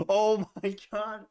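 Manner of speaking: laughing disbelief. Real, not acted. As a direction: laugh it out, can't believe it. New intraday high.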